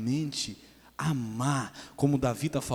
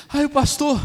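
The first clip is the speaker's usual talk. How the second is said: high, loud, startled hello; overly cheery, much higher and louder; flustered mock greeting; 12 semitones higher, 13 dB louder than usual. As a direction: imitate someone caught out greeting the pastor. Caught with beer, greets pastor.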